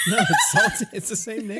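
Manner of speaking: laughing through a Southern twang; Southern accent. Acted. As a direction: hold the accent while cracking up. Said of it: "It's her fucking accent".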